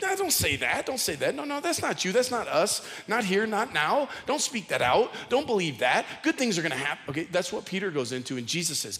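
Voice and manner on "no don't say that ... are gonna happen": pleading friend. Retold or imitated. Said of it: "You would be like".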